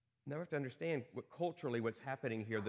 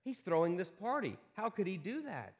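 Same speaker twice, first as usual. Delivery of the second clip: indignant complaint; 6 semitones higher than usual. Pretend. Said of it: "we would be thinking the exact same thing".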